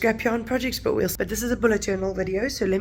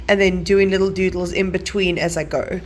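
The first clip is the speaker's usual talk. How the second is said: hiccups. Real, not acted. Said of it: "hiccups again as usual".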